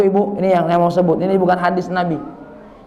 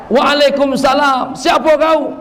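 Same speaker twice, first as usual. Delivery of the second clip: stern challenge; 4 semitones higher than usual. Acted. Grave voice challenges the visitor.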